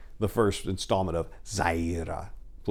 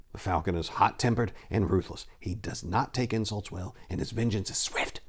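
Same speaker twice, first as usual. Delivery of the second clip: fearful warning; 6 dB quieter than usual. Acted. Miago warns fearfully.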